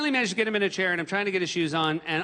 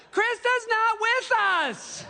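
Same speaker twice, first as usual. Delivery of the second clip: yelling back; slower than usual. Retold or imitated. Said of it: "they're like".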